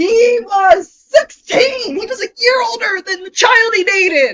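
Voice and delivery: shrill, very high, loud yelling. Reacting to learning how old someone was at the time, yelling. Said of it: "I'm sorry for yelling!".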